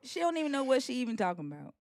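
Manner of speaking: Southern accent. Shown as a demonstration. Host prompting the learner's redemption try, soft Southern accent. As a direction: demonstrate the Southern accent softly. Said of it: "just talk like me".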